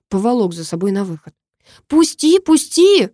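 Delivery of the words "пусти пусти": put-on high, loud girl's yell; shouting. A narrator's reading. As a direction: shout to be let go. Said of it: "Девушка кричала". (громко, высоким криком)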